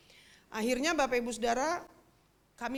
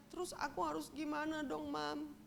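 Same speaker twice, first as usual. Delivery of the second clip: daughter crying; 7 semitones higher, 5 dB quieter than usual. Retold or imitated. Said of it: "Sambil nangis dia".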